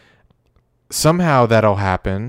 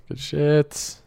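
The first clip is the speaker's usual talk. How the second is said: ordinary talk, nothing marked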